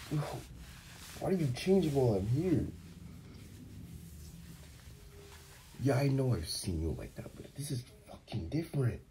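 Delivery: high, agitated and embarrassed; flustered protest. Acted. Flustered as partner undresses nearby.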